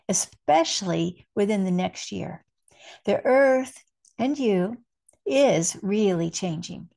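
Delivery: measured, deliberate spiritual message reading; spoken like a message from Spirit; channeled message reading. Acted. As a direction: read it out with weight, pausing between phrases.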